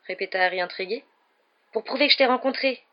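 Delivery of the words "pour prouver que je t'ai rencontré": put-on high, eager boy's voice; enthusiastic. A narrator's reading. Young fan explaining himself to his idol, enthusiastic. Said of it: "dit Colin avec enthousiasme".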